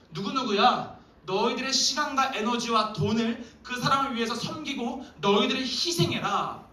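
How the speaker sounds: Jesus commanding. Acted. Pastor voices Jesus commanding.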